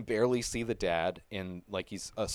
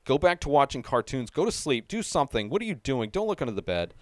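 yelling at the screen; 4 semitones higher, 3 dB louder than usual. Retold or imitated. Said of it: "I'm yelling at the screen".

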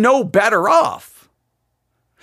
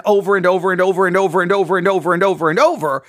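over and over, rattled off fast; rapid repetition; 3 semitones lower, much faster than usual. Real, not acted. Host stressing endless sin, rushing the repeats. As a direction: speed up through the overs.

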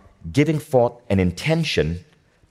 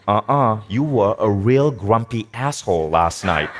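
nagging inner voice. Retold or imitated. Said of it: "there's a voice going".

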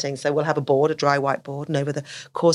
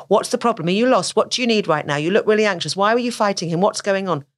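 a hint of a teacher firing off questions; barrage of questions; 3 semitones higher than usual. Teacher quizzing an anxious autistic child, rapid questions. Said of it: "What teachers do".

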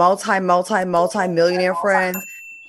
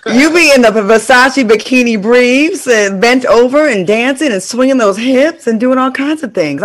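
excited teasing; 5 semitones higher, 7 dB louder than usual. Real, not acted. Teasing friend about showing off.

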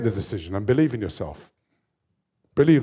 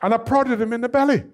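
high, laughing retelling; amused laughing voice; 10 semitones higher than usual. Real, not acted. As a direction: giggle through it, higher. Laughing while retelling prank.

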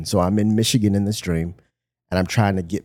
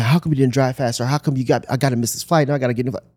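higher, quick mock complaint; lightly acted yelling, pitched up; mild retold yell; 5 semitones higher, much faster than usual. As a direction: imitate an angry rant in a hurry. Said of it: "I start yelling at this father figure".

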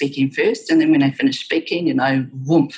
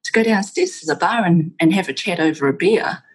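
breezy imitation of casual networking, pitched up; casual chat; 3 semitones higher than usual. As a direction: imitate an easy, casual invitation with a lilt. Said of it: "really casual conversations like".

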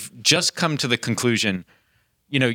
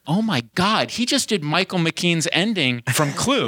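excited disbelief; 6 semitones higher than usual. Retold or imitated. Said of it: "And I'm like".

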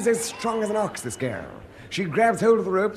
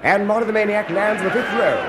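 excited commentary shout; 2 semitones higher, 5 dB louder than usual. Acted. Commentator reacting to a big throw.

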